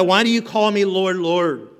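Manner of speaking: Lord, Lord pressed out loud and urgent. Shown as a demonstration. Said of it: "what does he mean by that question?".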